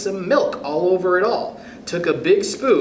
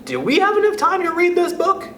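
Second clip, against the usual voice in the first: laughing; 13 semitones higher than usual. Real, not acted. Host laughing at the book title.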